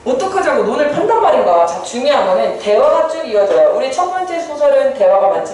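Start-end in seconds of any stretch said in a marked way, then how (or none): 0.0-1.7 acting a friend's mild rebuke, pitched up; reproachful questioning. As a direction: read it as a dismayed scolding. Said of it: "한동문을 책하면서 물었다". (친구를 책하듯 높여 묻기)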